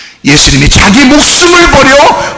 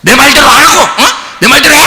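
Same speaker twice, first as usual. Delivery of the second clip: mock demanding kid, a little higher and pushy; bossy child ordering dad; 6 semitones higher than usual. Child ordering her dad around, mock demanding. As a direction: play the bratty child bossing her father. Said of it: "이 명령하고 막 그래요".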